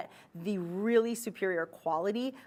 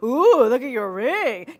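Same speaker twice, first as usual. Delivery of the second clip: loud, high, drawn-out ooh; hammed-up squeal over a ring; funny gushing voice; 5 semitones higher, 13 dB louder, slower than usual. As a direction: whoop it out slowly, high and loud. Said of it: "You say it in that funny voice".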